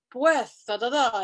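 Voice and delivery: mock-dramatic Castilian accent; heavy Spaniard accent. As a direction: imitate a grand Spaniard with a lisped s. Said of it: "speaking in a very heavy Spaniard accent".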